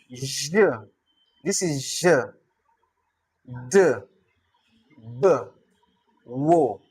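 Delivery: "J", "D", "B", "Wo" as separate sounds: zh, duh, buh, wo; sound-by-sound breakdown. Shown as a demonstration. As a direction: sound out "J", "D", "B", "Wo" with pauses between. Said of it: "This is how to pronounce it".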